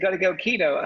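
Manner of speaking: punchy put-on southern accent. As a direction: imitate a southerner giving firm advice. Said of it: "in this southern accent".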